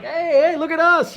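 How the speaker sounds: high, loud calls for attention; eager calling out. Retold or imitated. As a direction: wave them over, pleading to be noticed. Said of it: "I would always try to, like".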